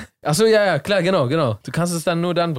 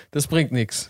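ordinary talk

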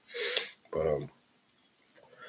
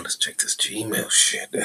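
whisper; 4 semitones higher, slower than usual. Real, not acted. Checking email, aside whisper.

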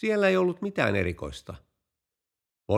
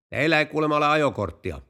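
mildly raised voice, higher pitch; calling out; 4 semitones higher, 4 dB louder than usual. Acted. Police chief questioning the driver from behind a car, calling out. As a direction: call it across at the suspect, not full shout. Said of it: "huusi poliisipäällikkö lähimmän poliisiauton takaa".

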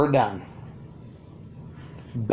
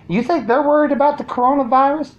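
higher and faster, pressing it; emphatic rhetorical question; 9 semitones higher, faster than usual. Real, not acted. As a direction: push the question harder. Same question repeated higher, louder.

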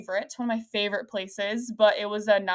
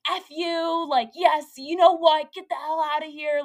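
high, feisty mock telling-off; sassy mock send-off; imagined angry outburst; 6 semitones higher, 3 dB louder than usual. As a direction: play at blowing up at someone, pitched up. Firecracker outburst she imagines.

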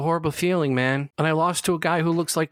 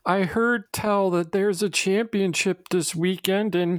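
higher put-on folksy voice; disguised voice; 7 semitones higher than usual. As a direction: pitch it up to fake a stranger. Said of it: "I know it's you, J-Maniac".

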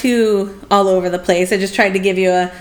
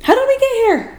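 dramatic; faster than usual. Acted. Dramatic rhetorical question.

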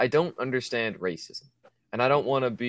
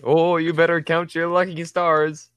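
put-on higher, slow old-man warning; a wheelchair-bound grandpa's empty threat; mock old threat; 6 semitones higher, 5 dB louder, slower than usual. Old person threat mocked.

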